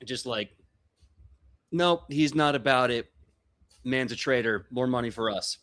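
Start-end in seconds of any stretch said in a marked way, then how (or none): 1.7-5.6 louder, rough bad-Goblin muttering. Goblin grumbles to his crew about the traitor, louder. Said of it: "speaking in Goblin. Very, very... very bad Goblin".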